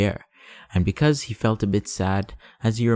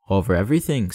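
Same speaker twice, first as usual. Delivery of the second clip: grand and simple. Acted. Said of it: "with magnificent simplicity".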